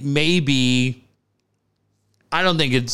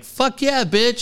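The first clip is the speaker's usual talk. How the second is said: mock triumphant gloating; 7 semitones higher, slower than usual. Acts out a player's triumphant reaction.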